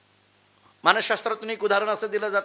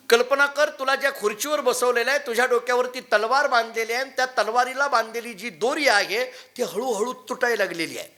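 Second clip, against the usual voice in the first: guru pressing on; 3 semitones higher than usual. Acted.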